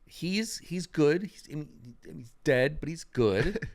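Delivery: nervously chipper consolation; awkward forced cheer. Acted. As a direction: cover bad news with brightness. Awkward reassurance to grieving Julia.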